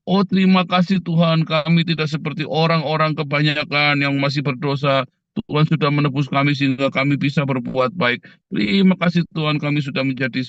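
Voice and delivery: lightly voiced smug churchgoer thanking God; a hint of a preening prayer; mock self-righteous prayer. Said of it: "ada orang begitu doa benar-benar".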